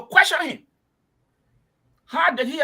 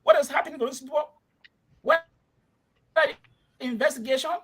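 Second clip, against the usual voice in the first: heated, raised-pitch challenge, words in bursts with pauses; emotional; 4 semitones higher than usual. Real, not acted. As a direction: demand answers, worked up and high. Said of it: "you're getting emotional".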